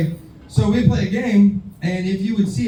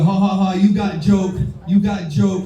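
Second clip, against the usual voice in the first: put-on Vietnamese accent. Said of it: "he always had an accent".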